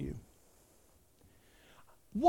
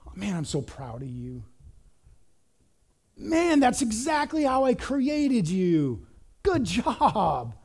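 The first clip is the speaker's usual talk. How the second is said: proud father; 2 semitones higher, slower than usual. Retold or imitated. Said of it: "That God is saying".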